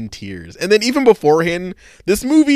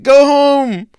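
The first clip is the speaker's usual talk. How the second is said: a raised, high call to go home; mock shout; 9 semitones higher, 6 dB louder, much slower than usual. Woman sending the boy away, raised mock shout. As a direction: hams up the send-off. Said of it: "she's like".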